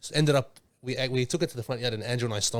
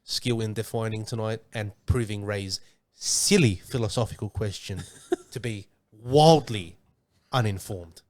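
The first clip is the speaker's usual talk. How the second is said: news anchor voice; 4 semitones lower than usual. Real, not acted. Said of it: "You sound like a news anchor".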